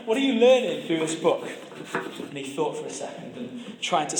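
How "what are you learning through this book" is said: laughing. Real, not acted. Laughing while retelling interview question.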